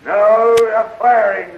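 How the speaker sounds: gloating loud threat. Acted. Villain bursts in.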